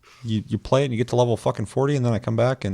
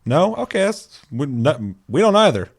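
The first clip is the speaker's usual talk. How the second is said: hammed-up company persona; 5 semitones higher, 4 dB louder than usual. Ubisoft persona asking players.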